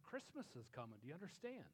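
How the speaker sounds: softly retold plea to grieving family; hushed insistent appeal. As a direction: drop the volume and press the point gently. Repeating appeal to sobbing family.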